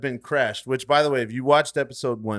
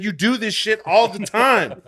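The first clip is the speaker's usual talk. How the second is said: incredulous outburst; 9 semitones higher, 6 dB louder than usual. Retold or imitated. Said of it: "I said".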